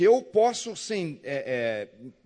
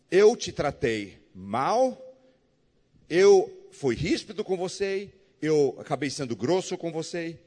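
sincere apology. Retold or imitated.

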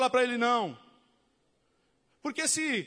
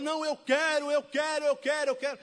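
put-on higher, insistent, childish repetition; stubborn insisting; 4 semitones higher than usual. Obstinate believer insists on his own will, mock childish. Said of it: "a pessoa é tão obstinada".

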